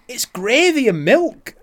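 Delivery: can't keep a straight face; laughing reveal. Retold or imitated. Laughing as he tells his boss the brew is gravy and milk.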